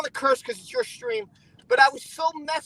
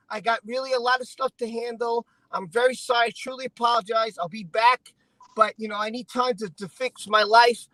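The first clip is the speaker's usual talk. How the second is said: lower, level voice of a YouTuber's apology; measured, lower-pitched sample apology; model apology announcement; 4 semitones lower than usual. Shown as a demonstration. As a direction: demonstrate a composed message to followers. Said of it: "here's what you do".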